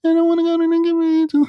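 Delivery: mocking a begging guy; mock begging whine. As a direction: whine like a desperate man begging. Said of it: "down there begging".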